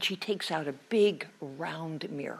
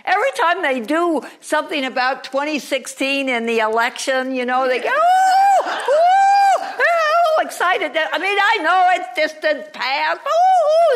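higher, louder goblin with squealing oohs; 8 semitones higher, 11 dB louder than usual. Acted. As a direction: play a gleeful little goblin. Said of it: "a goblin comes out".

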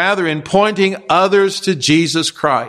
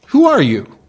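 laughing question; 8 semitones higher, 4 dB louder than usual. Retold or imitated. Delegation's question, retold with a laugh.

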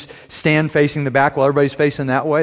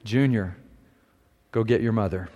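hushed aside to his son, softer; low-key murmur so no one else hears; quietly; 3 semitones lower, 5 dB quieter than usual. A narrator's reading. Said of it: "the dad quietly says to his son".

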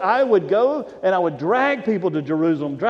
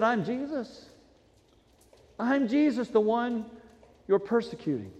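softer, hushed reply; quiet voice of Jesus; 7 dB quieter than usual. Retold or imitated. Jesus answers Saul on the road, softly. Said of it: "It said".

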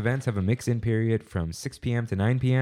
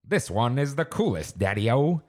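lightly voiced fifties announcer; old-timey voice; 4 semitones higher than usual. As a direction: read it like a retro radio host. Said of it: "should I read this in, like, an old-timey voice?".

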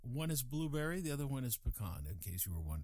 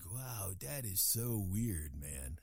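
imitating his kids; 5 semitones lower, much slower than usual. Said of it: "I don't know why they sound like that".

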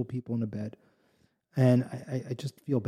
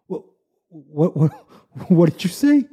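higher and louder, bursting with eager delight; excited what; 5 semitones higher, 8 dB louder than usual. Acted. Zusha presses the innkeeper to repeat it, eager and delighted. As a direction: pounce on it with a laugh.

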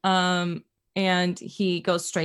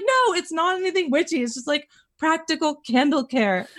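mock defensive reply; 9 semitones higher than usual. Defending herself to Kevin.

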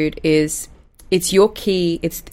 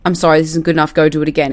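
blunt and a bit louder; serious; 4 dB louder, faster than usual. Shown as a demonstration. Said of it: "a seriousness like".

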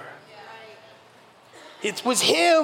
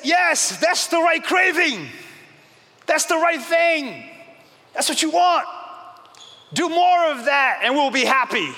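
excited affirmation; 6 semitones higher than usual. Retold or imitated. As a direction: cheer it on with rising joy. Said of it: "your soul says".

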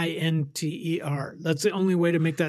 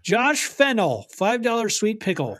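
mock announcer; 5 semitones higher than usual. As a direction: draw the name out like a ring announcer. Announcing names in a mock game.

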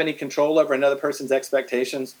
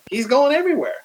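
emphatic exclaim; 10 semitones higher, faster than usual. Real, not acted.

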